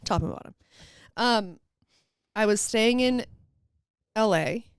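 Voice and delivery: slight lisp from retainers; wearing a retainer. Real, not acted. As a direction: talk around retainers in your mouth. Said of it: "so if you guys hear me lisp, it's 'cause I have my retainers in".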